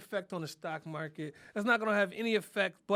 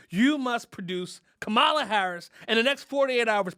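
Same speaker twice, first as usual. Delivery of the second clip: louder, higher demand, each word pressed; forceful demand; 4 semitones higher, 6 dB louder than usual. Acted. Comic to President Biden, forceful louder ultimatum. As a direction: lay down an ultimatum.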